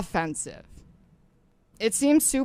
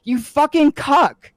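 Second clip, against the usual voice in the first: slow angry insult; 3 semitones higher, slower than usual. Real, not acted. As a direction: spit each word out slowly. Heated argument insult.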